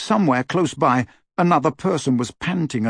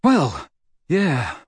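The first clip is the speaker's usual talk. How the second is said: put-on a bit puzzled teen boy; confused Ron; 3 semitones higher than usual. A narrator's reading. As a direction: shrug it off, slightly confused. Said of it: "looking slightly confused".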